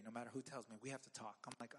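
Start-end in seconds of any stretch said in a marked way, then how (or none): 0.8-1.4 low, soft and ominous; dreaded line. Retold or imitated. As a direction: quote the dreaded words quietly. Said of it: "Those words terrify me".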